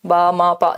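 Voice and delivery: बा, मा, पा evenly spaced and low; each of बा, मा, पा held on one low note; single syllables. Shown as a demonstration. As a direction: chant बा, मा, पा as separate level syllables. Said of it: "जिसमें एक ही बार सिलेबल लगे".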